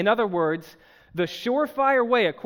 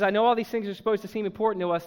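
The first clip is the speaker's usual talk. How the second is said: quick paraphrase; faster than usual. Retold or imitated. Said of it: "let me paraphrase what he says".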